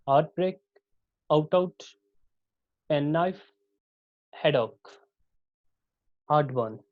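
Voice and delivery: equal weight on both halves of हार्ट ब्रेक, आउट आउट, पेन नाइफ; two even beats in each, हेडॉक and हार्ट बर्न too; each pair set apart, both syllables of हार्ट बर्न equally stressed; spondaic stress. Shown as a demonstration. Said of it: "all syllable have equal stress".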